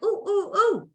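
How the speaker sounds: put-on thrilled the old jeans fit again; delighted squeal. To her co-host, acting out her joy that the jeans fit, squealing. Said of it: "And I'm like".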